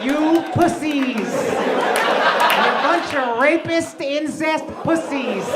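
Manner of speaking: loud, slow yelled insults; mock rant yell. Comedian yelling slow insults at the Amish, a loud mock rant. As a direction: bellow each insult slowly at them.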